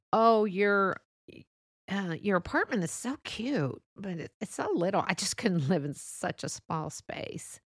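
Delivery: mock-sweet praise sliding into a dig; passive-aggressive compliment. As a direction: act out a backhanded compliment. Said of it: "there's the passive aggressive kind".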